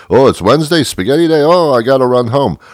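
put-on high, loud kid's amazement; mock surprise. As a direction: act thrilled, as if it's news. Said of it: "he's surprised every Wednesday".

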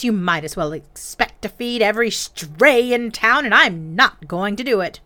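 loud, firm mother laying down law; stern scolding mother. Acted. Angry mother scolds son.

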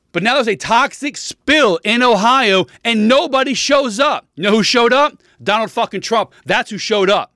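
venting real outrage at the government; heated rant building to outrage; worked up. Real, not acted. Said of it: "I hate getting worked up about this".

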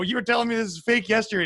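acting out a baffled call-out; incredulous retort. Retelling a confrontation with bodega guy.

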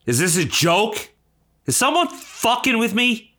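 disbelief climbing to a high-pitched question; halting, stunned, rising in pitch; incredulous outrage. Acted. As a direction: react aghast to a copycat. Outraged on hearing copycat show.

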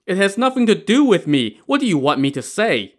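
high-pitched indignant denial; protesting. Acted. Old woman takes back her promise to talk, protesting. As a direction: start high in protest, then settle. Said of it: "Missus Wang protested".

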